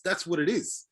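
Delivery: ordinary talk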